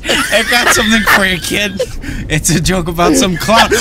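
a lightly voiced street hustler; Sal's voice. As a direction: talk like a shady guy slipping a tip. Voicing Sal over earpiece.

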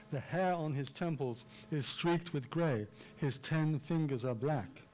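strong beats on HAIR, TEMPLES, STREAKED, GREY, TEN, FINGERS, BLACK; emphatic artificial reading. Shown as a demonstration. Lecturer reading a Waley poem for its stresses, emphatic reading. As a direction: punch each key word, slowing on "ten fingers are black". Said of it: "read it in a rather artificial way".

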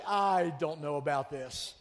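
slow, doubtful mock aside; mock skeptical. Pastor voicing a skeptical listener, slow doubt. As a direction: drawl it out like a doubter. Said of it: "You're like".

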